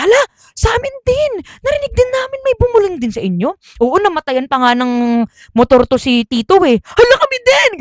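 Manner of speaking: high, excited hala; surprised exclamations. Retold or imitated. Cousins realizing it happened to them too, high surprised. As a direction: gasp it out, shocked.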